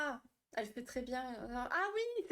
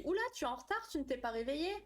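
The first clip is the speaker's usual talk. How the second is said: a startled voice from her own body, pitched up; alarmed inner voice; 4 semitones higher, faster than usual. Retold or imitated. Body waking her up in a mock panic, pitched high. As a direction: play your body panicking that you're late. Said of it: "il s'est dit".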